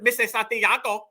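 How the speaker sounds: "Santiago" with an imitated Spanish accent; teasing Latino-accented "Santiago"; mock Latino dialect. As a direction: slip into Spanish pronunciation on "Santiago". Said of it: "I heard a real Santiago in her damn dialect".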